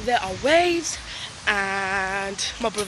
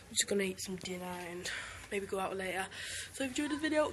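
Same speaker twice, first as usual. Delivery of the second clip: whispering; 3 semitones lower, 13 dB quieter, much faster than usual. Real, not acted. Whispered end of vlog.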